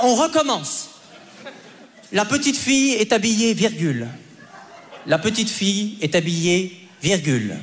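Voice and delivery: stern dictation, stretching the last words very slowly; mother dictating. Retold or imitated. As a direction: drag each dictation word out to torture the kid. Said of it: "Elle était là".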